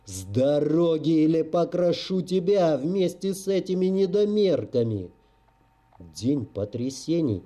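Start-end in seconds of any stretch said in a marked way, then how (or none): 0.1-5.1 growling threat. Acted. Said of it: "зарычал санитар".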